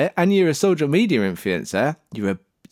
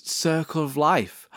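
usual speaking voice

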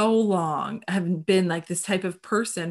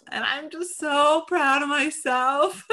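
giggly, high, slow and louder; laughing with pride; 7 semitones higher, 5 dB louder, slower than usual. Real, not acted. To her co-host about crying, laughing proudly. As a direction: laugh through it, delighted with yourself.

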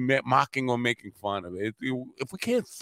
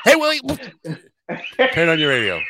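calling out; 6 semitones higher, 4 dB louder, faster than usual. Real, not acted. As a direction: call Willie loud and high across the room. Calling out to Willie.

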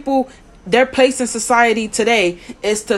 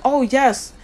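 mock professional voice; 2 semitones higher, faster than usual. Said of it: "we wanna talk like".

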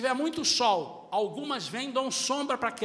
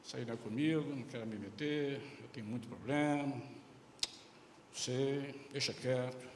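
low, soft, shrugging voice of someone who won't get involved; a lightly voiced indifferent churchgoer; indifferent member; 9 semitones lower, 5 dB quieter than usual. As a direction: brush it off as not your business.

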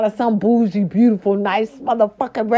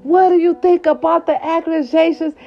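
reporter asking; 8 semitones higher than usual. Retold or imitated. Reporter questioning Jada on the street, mild mock voice. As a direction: lean in with the question. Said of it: "listen, listen".

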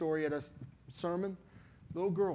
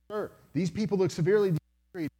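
retold plea; 5 semitones higher, 6 dB louder than usual. Pleading with beast in retold dream.

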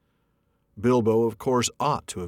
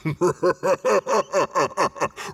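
dragon laugh; 9 semitones higher, 5 dB louder than usual. A narrator's reading. Dragon mocking the hobbit with a booming laugh. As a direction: shake the hall with the laugh. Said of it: "Then Smaug really did laugh".

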